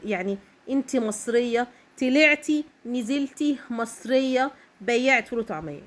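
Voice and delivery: slow, stretched scornful retelling; mocking taunt. Vlogger retelling the taunt to Egyptian women, mild mocking. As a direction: stretch طلعتي نزلتي out like a sneer. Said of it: "قالت لها باستهزاء".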